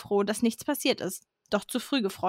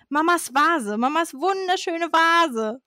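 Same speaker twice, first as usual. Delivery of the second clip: higher-pitched, drawn-out dramatic outcry; narrated shout; 7 semitones higher, slower than usual. A narrator's reading. Dad finds Mum's beautiful vase broken, dramatic mock shout. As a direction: wail over it, stretching the words. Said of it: "schrie Papa".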